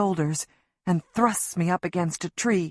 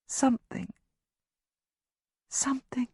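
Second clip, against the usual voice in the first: hushed; 5 semitones higher, 5 dB quieter than usual. A narrator's reading. Whisper into child's ear.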